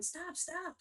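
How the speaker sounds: retold frantic stop, high; imitating mom yelling. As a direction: replay the mom's panicked shouts, high. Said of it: "my mom's all yelling".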